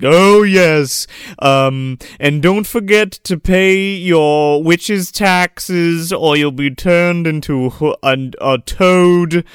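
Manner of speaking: slow, drawn-out host announcement; announcer voice. Retold or imitated. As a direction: read it like a pompous master of ceremonies. Host announcing the night's business.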